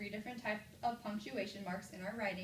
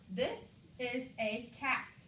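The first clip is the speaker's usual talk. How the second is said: "This is a cat" read word by word, slowly, ending on a fall; slow, measured statement, "This is a cat" closed like a period; 3 semitones higher, slower than usual. Shown as a demonstration. Teacher models a sentence with a period, slow plain statement. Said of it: "tone in my voice when I read that sentence".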